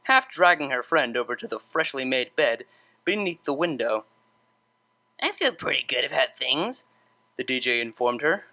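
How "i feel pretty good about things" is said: sleepy wise pronouncement; sage. Acted. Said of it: "nodding her head sagely".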